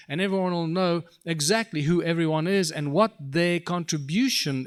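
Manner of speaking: rousing, emphatic orator's delivery; impassioned speech. Real, not acted. Speaker selling an education vision to an audience, impassioned and emphatic. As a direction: drive each point home with punched key words.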